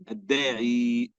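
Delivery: الداعي stretched slowly as "ad-daa-'ii"; drawn-out word. Shown as a demonstration. Teacher repeats the word slowly for students. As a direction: repeat الداعي slowly so each sound is clear.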